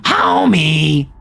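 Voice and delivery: a light Simpsons mom impression calling her husband; lightly voiced Simpsons mom; Marge Simpson. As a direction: toss off a quick cartoon wife call. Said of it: "Marge Simpson voice".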